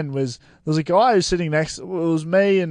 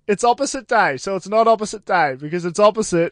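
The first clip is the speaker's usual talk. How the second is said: mock know-it-all schoolkid, a bit higher; smart-aleck kid; 3 semitones higher, 3 dB louder than usual. Schoolkid at primary school correcting another kid, smug. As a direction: play the clever kid outsmarting the rule. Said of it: "someone else would go".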